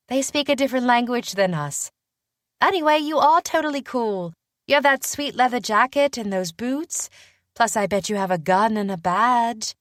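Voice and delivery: high-pitched, chatty admirer; eager young witch, openly impressed; peppy young British witch. Acted. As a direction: gush in a girlish British voice. Voices the young witch Willa.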